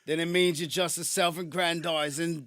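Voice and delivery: put-on a light South London accent, bruv and all; lightly put-on South London voice; casual South London accent, half-committed. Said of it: "from South London".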